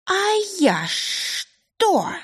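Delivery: very high, slow, sheepish creature voice; embarrassed snake. A narrator's reading. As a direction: caught out, flustered little snake. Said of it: "неожиданно смутилась змейка". (смущённая змейка)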